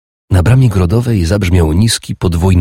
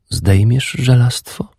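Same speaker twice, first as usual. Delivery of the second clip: higher and slow, playful; teasing woman's question; 7 semitones higher than usual. A narrator's reading. Urdis teasing her lover, slow and higher. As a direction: lift it and draw it out teasingly.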